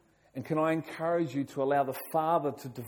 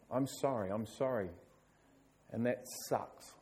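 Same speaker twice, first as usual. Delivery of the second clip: softer, gently lowering apology; tender sympathy; 3 semitones lower, 7 dB quieter than usual. Real, not acted. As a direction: console the listener quietly and sincerely. Consoling those who never heard approval.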